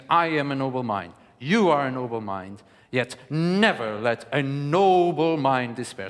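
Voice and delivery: proud lean on "noble", slowing at the end; boasting. Shown as a demonstration. Coach showing students a boastful noble mind. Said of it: "a boasting on noble".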